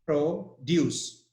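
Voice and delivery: "Produce" as PRO-duce, the noun; teacher demonstrating noun "Produce", stress on PRO; stress on first syllable. Shown as a demonstration. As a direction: split "Produce" in two, first syllable stronger. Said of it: "That's a noun".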